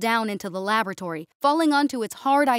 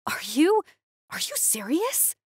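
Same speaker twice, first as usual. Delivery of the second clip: muffled growl; 7 semitones higher than usual. Acted. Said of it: "she growled from underneath her muzzle".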